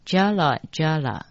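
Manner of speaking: Jala Jala with a "ja" close to Taiwanese; close to Taiwanese pronunciation. Shown as a demonstration. Teacher likening the sound to Taiwanese, pronunciation demo. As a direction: demonstrate Jala Jala in two even units. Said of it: "这个字发音跟台语比较接近".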